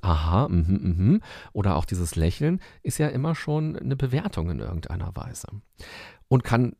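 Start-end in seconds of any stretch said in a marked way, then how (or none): 0.0-1.2 short agreeing aha and mhm; listener's aha, mhm. Shown as a demonstration. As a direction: nod along with aha and mhm. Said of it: "Und dieses".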